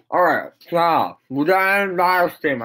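talking around chewing gum; words through a wad of gum. Real, not acted. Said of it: "I got gum in my mouth".

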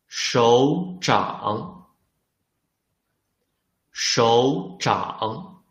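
手掌 read carefully with its tones; listening test read. Shown as a demonstration. Teacher reads the quiz word for students, careful tones.

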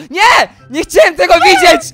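high, loud mock-outraged yelling; hammed-up horror. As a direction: shriek in playful disgust and flee. Zgorszony widokiem nagiej postaci. (przesadzony, wysoki krzyk zgorszenia)

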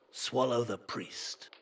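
loud, slow command; command to the bag. Acted. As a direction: order the bag to obey. Magician commanding his bag.

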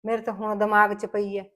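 remorseful apology. Acted. Remorseful mother-in-law apologizes.

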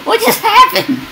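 laughing, baffled at the game's chaos. Real, not acted. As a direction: laugh through the question in disbelief. Chaos in game.

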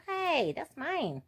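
slow, drawn-out playful protest; mock indignant. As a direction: pretend offense at the dog.

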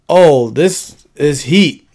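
slow, drawn-out mock explainer, "heat". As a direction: stretch out "Oh, this is heat" like a video host. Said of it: "they be like".

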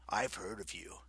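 soft whisper; whispered aside. A narrator's reading. Lycaon whispering to Nico, menacing. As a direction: hiss it quietly.

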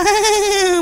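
soft villainous chuckle; short, self-satisfied mock laugh; gloating laugh. Pukki enjoys beating Shinchan.

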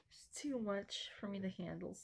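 whispered, overwhelmed aside. Real, not acted. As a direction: breathe it out as a whisper.

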